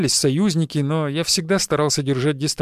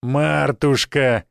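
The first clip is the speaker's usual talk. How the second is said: very slow, drawn-out pet name; glad greeting; much slower than usual. A narrator's reading. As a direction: greet your beloved with a smile. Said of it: "на его губах появилась радостная улыбка". (радостно, ласково протянуть имя)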